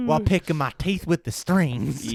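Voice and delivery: put-on comic backwoods Southern accent. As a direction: play along as a Southern hick. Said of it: "My southern accent".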